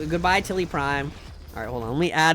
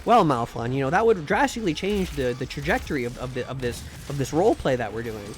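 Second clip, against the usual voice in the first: lightly voiced earnest GM. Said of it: "he'd be like".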